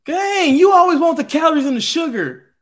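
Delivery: high, loud scolding; exasperated outburst. Real, not acted. Mock outrage at refusal of drink.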